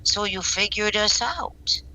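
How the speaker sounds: put-on slow, barely German accent; drawn-out line with a faint German accent; poor German accent. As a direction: attempt a German accent, not very convincingly. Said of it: "he's got the German accent".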